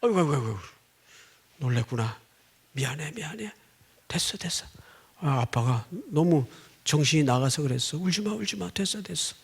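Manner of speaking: put-on soft, hushed comforting to a crying child; soothing. Father comforting his crying daughter, soft and tender. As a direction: murmur gently, rocking the child. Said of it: "그때야 내 정신이 돌아와가지고".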